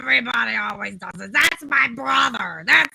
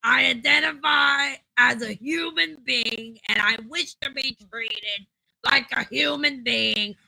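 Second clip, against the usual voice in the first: indignant declaration. Acted. Dog-man insists on being human.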